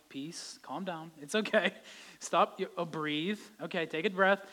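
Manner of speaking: soothing calm-down. Pretend. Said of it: "needing somebody to tell me".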